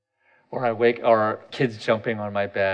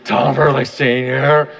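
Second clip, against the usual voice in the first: incredulous; 6 dB louder, slower than usual. Pretend. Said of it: "I know you're like".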